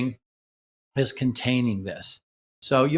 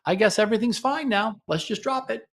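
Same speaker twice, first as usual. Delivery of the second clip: dismissive shutdown; 8 semitones higher than usual. Shown as a demonstration. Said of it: "so try it again".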